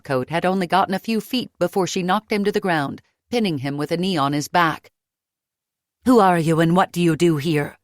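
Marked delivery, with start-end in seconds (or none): 6.1-7.8 louder threatening snarl. Acted. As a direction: growl it down at him. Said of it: "she snarled".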